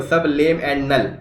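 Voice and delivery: "सब लेम and null" said slowly, each syllable apart; split into syllables. Shown as a demonstration. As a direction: break सबलिमिनल into "सब लेम and null", slow. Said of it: "syllable देख रहे हो".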